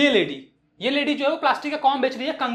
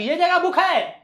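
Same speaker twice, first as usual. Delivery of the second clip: high, mildly raised vendor voice; half-hearted acted yell; mock shout; 4 semitones higher, slower than usual. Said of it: "वो बहुत ही ज्यादा चिल्ला के बोलती है".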